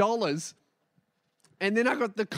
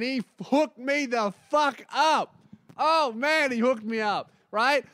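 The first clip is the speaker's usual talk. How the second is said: excited disbelief; 3 semitones higher than usual. Real, not acted. Excited about the discount.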